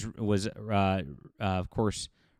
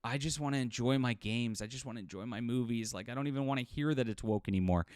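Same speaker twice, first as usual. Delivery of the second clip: softer, worn-out complaint of someone fed up; mock fatigue; 6 dB quieter than usual. Voicing tired gamers who just want games, mildly weary. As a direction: imitate weary fans, a little quieter. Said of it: "there's been a fatigue".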